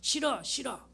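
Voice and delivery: put-on high, pouting child refusing; a child whining no; whiny child. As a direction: play a stubborn little kid. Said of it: "그럼 애가 뭐라고 말하냐면".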